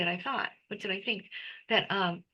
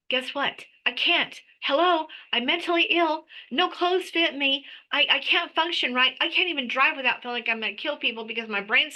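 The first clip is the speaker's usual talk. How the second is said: higher, rising indignant pleading; exasperated protest; 3 semitones higher than usual. Retold or imitated. Retelling how she argued with God about getting a job, exasperated. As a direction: throw it back at God, fed up.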